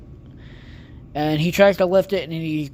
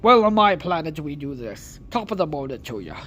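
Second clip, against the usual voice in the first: mock Irish. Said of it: "I don't know why the fuck I said that".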